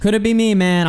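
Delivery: high, mocking echo of the line; mock smug quip. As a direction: parrot it back with a sneer.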